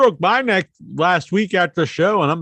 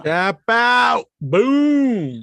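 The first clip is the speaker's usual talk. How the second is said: excited; 6 semitones higher, 4 dB louder, much slower than usual. Real, not acted. Excited callback shout.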